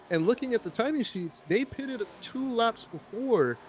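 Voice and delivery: excited high-pitched race call; motorsport commentator. Real, not acted. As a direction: call the surprise move with rising excitement.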